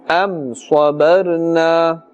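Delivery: slow, drawn-out tajweed recitation; Quran recitation. Shown as a demonstration. Teacher models the verse for learners, slow tajweed recitation. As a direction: recite slowly and evenly, holding the final vowel.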